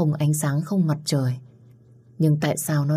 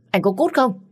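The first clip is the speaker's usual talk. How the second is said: high, loud demand to get out; angry shout; 6 semitones higher, 3 dB louder than usual. Acted. Phương shouting at Phong to leave, angry yell. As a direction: yell him away. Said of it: "nghe tiếng quát như vậy".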